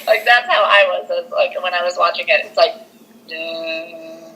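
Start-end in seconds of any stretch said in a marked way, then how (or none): 3.3-4.3 imitated eerie music. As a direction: hum like creeping horror music. Imitates the film's ominous music.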